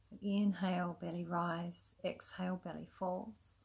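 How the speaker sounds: calm, unhurried yoga nidra guidance with long pauses; soothing, even meditation voice; guided meditation. Acted. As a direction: gently lead them into rest, leaving space between phrases. Guides a relaxation practice.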